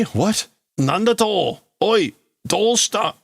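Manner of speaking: high, startled demand; alarmed questioning. Acted. Admiral calling to a crewman cut off, alarmed. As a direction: call out into a dead line.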